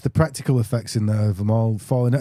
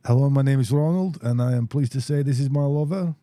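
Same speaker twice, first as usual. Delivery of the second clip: Dutch impression. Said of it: "that Harry Enfield one".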